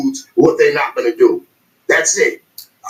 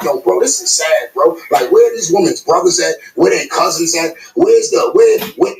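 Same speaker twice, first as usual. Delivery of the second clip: exasperated plea. Retold or imitated. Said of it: "And that's why I be like".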